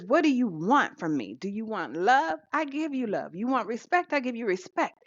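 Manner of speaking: high, urgent pleading; son confronting mother. Retold or imitated. Son asking his mother what she wants, pitched high.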